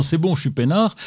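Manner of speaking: ordinary delivery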